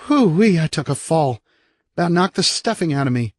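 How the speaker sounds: put-on high, bright-eyed kid whooping then chatting; little brother bragging about his fall; cheerful little boy. The speaker voiced as a boy.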